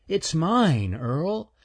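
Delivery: high, stammering squirrel voice; a timid squirrel tripping on words; nervous stuttering squirrel. Acted. Stanley's voice.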